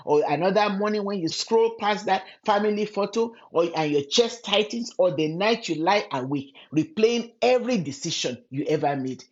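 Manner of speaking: normal talking voice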